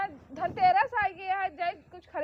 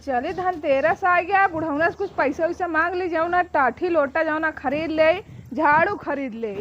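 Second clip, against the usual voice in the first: loud, projected voice; stagey, full-voiced planning aloud; loud announcing; 2 semitones lower, 8 dB louder than usual. Daughter-in-law thinking aloud about festival shopping.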